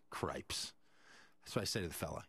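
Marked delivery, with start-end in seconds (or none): 0.1-0.7 a muttered whisper of disbelief; whispered curse. Real, not acted. To himself at the counter, whispering cripes. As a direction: breathe it under your breath. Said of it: "And I'm like".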